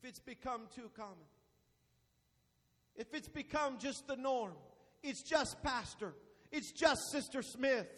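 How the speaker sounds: quiet, measured pulpit aside; hushed preaching. Real, not acted. Preacher drops voice for effect.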